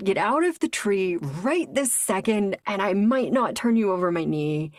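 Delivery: mock angry. He orders her out of the tree, mock angry. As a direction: lean on each word in mock outrage. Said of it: "You seem really angry".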